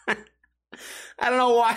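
slow words squeezed out through laughter; can barely speak for laughing; cracking up at his own skit. Real, not acted.

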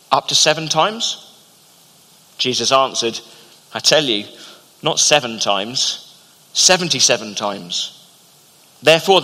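measured, unhurried Bible reading; scripture reading. Acted. Preacher reading Matthew eighteen to the congregation, measured reading. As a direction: read the parable out to the church, steady and clear.

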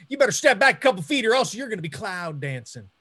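fast, punchy tough guy threat; tough guy line. Shown as a demonstration. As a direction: nail the line this time. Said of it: "my Chris Farber intro line".

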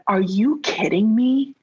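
hushed, disbelieving whisper; a slow shocked whisper; incredulous whisper. Retold or imitated. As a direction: breathe it out in disbelief. Refusing husband's idea, whispered.

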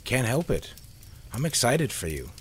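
bright teasing excitement; grinning, excited. Acted. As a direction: tease him, glad and eager. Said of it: "Carol said with a grin".

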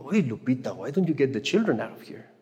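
grumbling in a mock Mexican accent. Annoyed churchgoer grumbling about Lupita's crying baby, Mexican accent. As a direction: complain quietly in a Mexican accent. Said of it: "With the Mexican accent and all".

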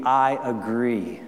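gentle reply. Shown as a demonstration. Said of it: "Verta's response to this is going to be".

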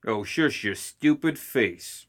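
slow, contemptuous put-down; slow snarl. Acted. Ma sneering slowly at Summer across the table. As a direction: sneer it slowly through bared teeth. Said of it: "baring her teeth".

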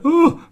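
high, loud exaggerated "oh"; startled mock "ooh". Podcaster mimics character dropping the bottles, mock startled yelp.

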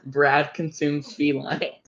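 imitating a calm, offhand delivery; nonchalant. Friend quoting the cat joke back, nonchalant. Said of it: "said it the most nonchalant way".

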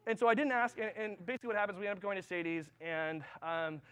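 ordinary talk, nothing marked

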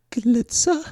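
overwhelmed with desire; robot stammers at the word Glitzer; awed robot. Acted.

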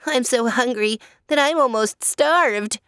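high, fretful whine. Acted. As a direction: complain fretfully. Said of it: "said fretfully".

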